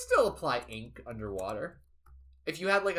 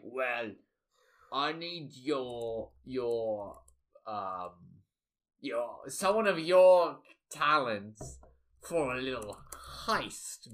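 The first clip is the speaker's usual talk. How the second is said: Shark; 3 semitones lower, slower than usual. Acted. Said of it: "And Shark is just like".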